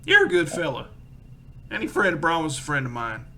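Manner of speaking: jovial shopkeeper voice. Acted. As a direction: clap him on the back with it. Shopkeeper NPC greets players.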